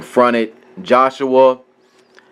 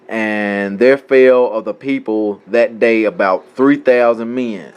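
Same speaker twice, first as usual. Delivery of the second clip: measured reading aloud from scripture. Acted. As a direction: read the verse out in a steady recital.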